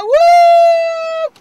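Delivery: high, loud whoop as the car jolts; a shrieking woo of alarm and thrill; startled whoop. Real, not acted. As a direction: let out a wild, high woo. Car lurches backwards out of driveway.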